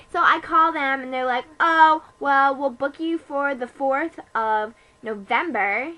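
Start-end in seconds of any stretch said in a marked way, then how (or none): 1.6-5.9 slow, drawn-out booking voice; lightly voiced booking clerk. Cleaner booking a far-off appointment, in a mock clerk's drawl. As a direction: draw out the appointment date, mildly put-on.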